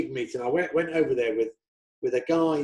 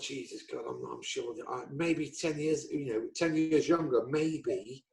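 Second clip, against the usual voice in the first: inner thought; 9 dB quieter than usual. Retold or imitated. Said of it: "And I just thought".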